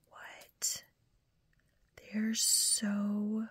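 hushed ASMR whisper over a gift package; whispered unboxing. Real, not acted. Whispering to viewers while opening a yarn gift box.

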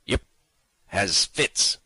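rough kidnapper voice. A narrator's reading. Kidnapper lies to the baggage man, loud rough voice. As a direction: bluff it off as a tough guy.

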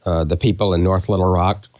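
holding back tears as he thanks them; choked up. Real, not acted. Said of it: "'cause he just made us cry".

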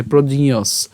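"প্রজিয়স" run together, the ইয় said through the nose; joined nasal sound. Shown as a demonstration. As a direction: join "প্রজিয়স" as one word with a nasal ইয়. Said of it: "এই ইয় যেটা উচ্চারণ করছি". ("প্রজিয়স" একসাথে, ইয় নাকে)

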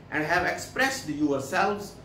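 very slow, word by word English reading; slow dictation. Shown as a demonstration. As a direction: read it out slowly for the class to follow. Reads English text slowly. (धीमी आवाज़ में पढ़ना)

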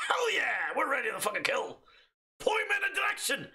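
pumped soldier battle cry; excited shout. Pretend. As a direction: yell it, ready to fight. Gung-ho soldier reply.

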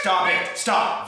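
shout. Real, not acted. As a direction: yell to make him stop. Friends shouting at Vincent.

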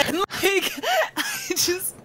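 high, breaking up while talking; helpless laughter. Real, not acted. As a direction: squeeze the words out through laughter. Cracking up at own failed accent.

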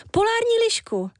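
polární lišku swooping very high on polární, falling on lišku; delighted wish. Acted. Éja begging the Walrus for an arctic fox, high excited gush. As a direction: gush it high like a longed-for treat. Éja names her dream pet.

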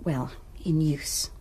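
slow, hushed euphemism; coy whisper. Acted. Student to the don, slowly whispering the innuendo. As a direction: drop to a whisper for the delicate part. Coy hint about the bedroom.

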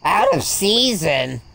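drawn out and loud; slow loud declaration. Pretend. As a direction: announce it like a verdict. Repeats game text, then squeaks it.

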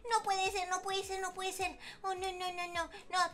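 hushed disbelief; dismayed. Acted. Girl alone by the sunken bike, soft despair.

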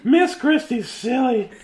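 playful aside. Real, not acted. Playful aside during birthday video.

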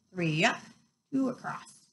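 soft, absent-minded mutter; muttered counting. A narrator's reading. Hagrid counting bricks in the wall, muttering. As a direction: count under your breath to yourself. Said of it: "he muttered".

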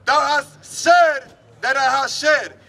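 ordinary delivery

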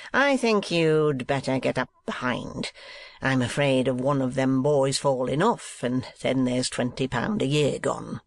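lightly voiced mercenary schoolmaster; a hint of a coarse schoolmaster; schoolmaster Squeers. Schoolmaster sending his assistant up behind, lightly coarse voice.

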